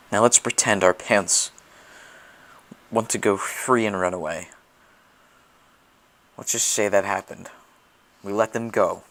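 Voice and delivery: loud. Acted. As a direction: push it out boldly. Building to a loud proposal.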